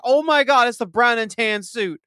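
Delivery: stunned excitement. Retold or imitated. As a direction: gasp it out like a thrilled fan. Retells seeing the cameo.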